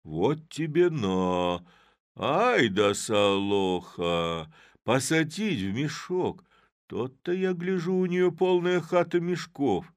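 slow, loud, high indignant outburst; Chub, jealous and dumbfounded. A narrator's reading. Chub to the men, slow and loud in jealous amazement. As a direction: stretch out his dismay at being fooled. Chub realises Solokha's tricks.

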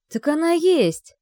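a loud, high, slow cry of hope; hopeful cry. A narrator's reading. Kirill cries out hopefully to his father. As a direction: grab onto the hope. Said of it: "с надеждой вскрикнул Кирилл".

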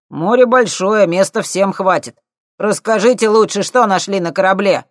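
high loud cheeky lad; cocky punk. A narrator's reading. Thief needling the scientists, loud and cocky.

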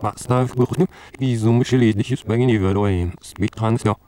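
speech played in reverse; backwards speech. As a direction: voice run backwards on tape. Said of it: "Oder mit anderen Worten".

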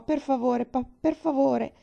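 put-on a child begging her father; pleading. A narrator's reading. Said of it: "supplicò". (bambina che implora papà)

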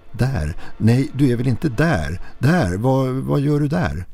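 a mother losing her grip on the phone; mother's panic. Acted. Mother on the phone realizing where her child is, panicked. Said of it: "hörde ändå mammas rop i ren panik".

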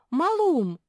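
very high, loud joyful call; delighted. A narrator's reading. Naretta recognising her host, delighted. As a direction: greet him with delight. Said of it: "обрадовалась Наретта".

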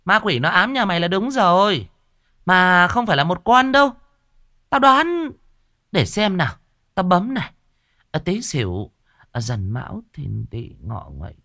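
high, loud, bossy warning; stern shaman. Acted. Shaman warning the old woman of ghosts, high and bossy. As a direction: talk down to the client.

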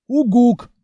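loud impatient monster hoot; irritated hoot. Acted. Monster hoots at the slow-witted hero, irritated. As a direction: hoot with annoyance. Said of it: "раздражённо".

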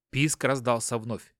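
ordinary delivery

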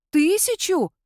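"Тысячу?" gasped high and loud, falling. A narrator's reading. The narrator gasps at Sandru's age, high and loud. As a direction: gasp "Тысячу?" in shock, high up. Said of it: "ахнула я".

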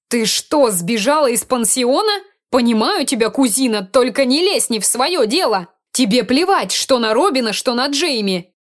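indignant scolding. Acted. Mina scolds runaway cousin.

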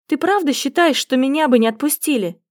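usual speaking voice

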